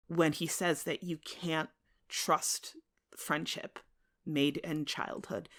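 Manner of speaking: usual speaking voice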